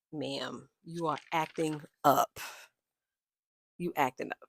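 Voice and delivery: soft, halting scolding with long pauses; mock dismayed reproach. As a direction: scold her quietly, at a loss. Acts out her reproach to Karen.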